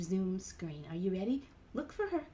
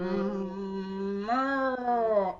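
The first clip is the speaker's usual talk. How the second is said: bossy cow moo; 4 dB louder than usual. Shown as a demonstration. Showing the kids a big bossy cow moo. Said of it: "like we're a big old bossy cow".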